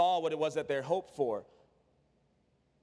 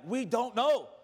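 lightly voiced protesting disciple, pitched a little up; a touch of exasperated confusion; Thomas; 4 semitones higher than usual. Disciple answering Jesus about the way, mildly exasperated. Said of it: "you hear Thomas's response after this".

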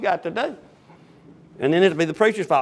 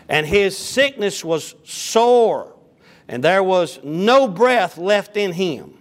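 raised pulpit reading of the King James text; scripture reading; 3 semitones higher, slower than usual. Acted. Preacher reading the Bible aloud to his congregation, raised and measured. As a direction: read the Word out to the congregation.

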